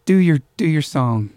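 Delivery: put-on coaxing call in an Irish accent. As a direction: imitate an Irish mother urging someone on. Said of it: "That's me doing an Irish accent".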